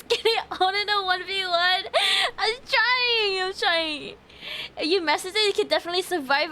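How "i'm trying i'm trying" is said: mock crying. Whiny fake cry at game.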